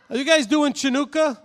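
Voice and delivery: high, loud question with Chanukah as chuh-NOO-kah; mispronounced "ch". Shown as a demonstration. Quizzing students with the wrong word, chuh-NOO-kah for Chanukah. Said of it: "It's not Chanukah".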